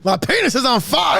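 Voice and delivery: high, loud comic wail; mock agonized cry. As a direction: cry out in hammed-up agony. Riffing the patient's desperate complaint.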